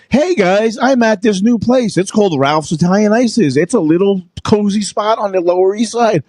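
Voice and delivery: breezy vlog intro, lightly sketched; influencer voice. Retold or imitated. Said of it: "the influencer voice who's kinda like".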